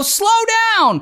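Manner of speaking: mock shrill, high-pitched yell. Retelling how a teen girl shouted out the window at a speeding driver: retelling a yell. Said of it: "the teen girl yells out the window".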